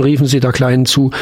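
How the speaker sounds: plain reading voice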